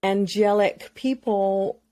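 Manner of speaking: slow, syrupy reverence for the dearly departed; mocking a saintly eulogy; mock reverent. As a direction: lay on the pious tone, slowly. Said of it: "glorify them in this glow of".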